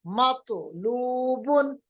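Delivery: मतलूबुन very slow, bounced तो; slow qalqala demo. Shown as a demonstration. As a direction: echo the तो in मतलूबुन. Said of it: "तो पे कैसे कलकला करेंगे".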